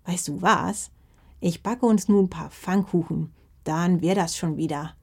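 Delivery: a granny cheering up her grandson; kindly grandma. Acted. Grandma offers pancakes. (freundliche Oma, leicht gespielt)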